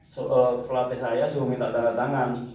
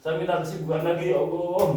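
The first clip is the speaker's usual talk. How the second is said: retold tearful plea; 3 semitones higher than usual. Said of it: "Sambil nyuci nangis".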